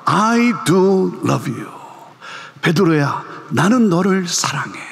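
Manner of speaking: Jesus telling Peter he loves him, slow and tender; tender confession. Acted.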